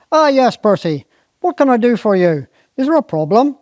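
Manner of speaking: a hint of the lordly squire.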